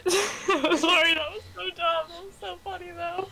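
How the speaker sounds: high-pitched, giggling through the words; helpless, embarrassed laughter breaking into speech; laughing apology. Real, not acted. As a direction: apologise while cracking up. Cracking up over own silly mistake.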